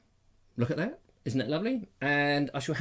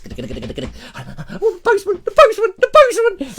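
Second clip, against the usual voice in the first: excited about the postman; 10 dB louder, slower than usual. Retold or imitated. Excitedly rushing down for post.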